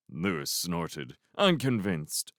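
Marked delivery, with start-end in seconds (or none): none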